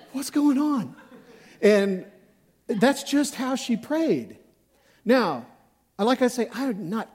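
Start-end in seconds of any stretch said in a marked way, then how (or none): 0.1-1.0 high, laughing mock alarm; half-laughing, bewildered; startled. Pastor's startled reaction in prayer, high and laughing. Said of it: "And I was like".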